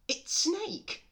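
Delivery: very high, loud mouse voice; high little cartoon mouse; chirpy mouse. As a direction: squeak it out brightly. Mouse's line in the story.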